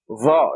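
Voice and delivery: Va said with the tongue stuck out between the teeth; heavy Z with the tongue out for Va; tongue sticking out. Shown as a demonstration. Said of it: "You stick your tongue out".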